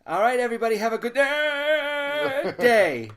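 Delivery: put-on high, loud old lady with a Jewish twang; squeaky grandma with a nervous twitch; old grandmother voice. Shown as a demonstration. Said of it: "a Jewish kinda twang to her voice".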